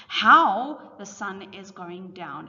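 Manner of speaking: How said slowly and pushed out, the rest slow too; stress on how. Shown as a demonstration. Teacher stressing How for her class, slowly. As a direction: lean hard on How, then take the whole line slowly. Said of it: "So here the emphasis is on how".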